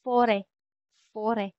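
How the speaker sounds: French "Fore" with a soft, longer final vowel; French pronunciation. Shown as a demonstration. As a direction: say "Fore" the French way, ending on an open e. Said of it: "softer or longer kapag binibigkas".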